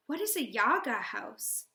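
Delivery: mildly insistent question; understated demand. Acted. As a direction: press for an answer without raising the voice. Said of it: "I demand".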